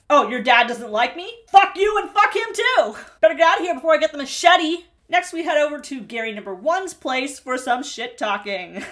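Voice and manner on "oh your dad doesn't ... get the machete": louder, higher, faster furious rant; hammed-up angry girlfriend blowing up; mock furious rant. Imagining Amber yelling at Gary, hammed-up fury. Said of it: "She was probably more like".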